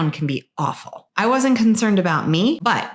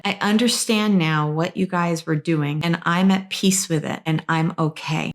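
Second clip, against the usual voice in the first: calm at peace. Retold or imitated. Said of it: "He said".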